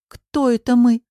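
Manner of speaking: piqued retort; bristling. A narrator's reading. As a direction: bristle at it, pitch jumping up. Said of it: "вскинулась Алочка".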